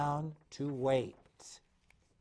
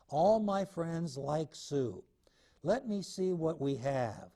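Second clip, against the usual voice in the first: lightly voiced eager cub, higher and brisk; little bear voice; 4 semitones higher than usual. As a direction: plan the soup like an excited little bear. Voices Little Bear planning soup.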